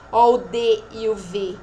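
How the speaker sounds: normal talking voice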